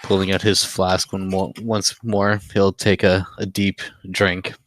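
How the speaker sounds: sly gambler character voice; lightly voiced cool gambler; Gambler Black voice. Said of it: "Feels good to use my Gambler Black voice".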